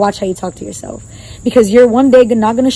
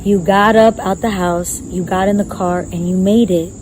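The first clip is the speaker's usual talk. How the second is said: encouraging self. Retold or imitated. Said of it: "And I was like".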